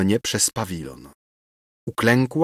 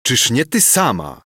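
furious; 3 semitones higher, 3 dB louder than usual. Acted. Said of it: "wołał Ksawery z wściekłością".

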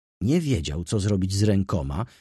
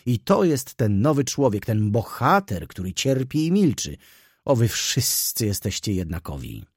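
gniew; 2 semitones higher than usual. Acted. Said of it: "wybuchnęła gniewem".

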